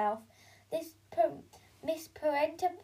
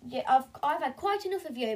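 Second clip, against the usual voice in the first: 1 haughty posh mum; 3 semitones higher, 4 dB louder, faster than usual. Acted. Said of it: "Belinda bragged".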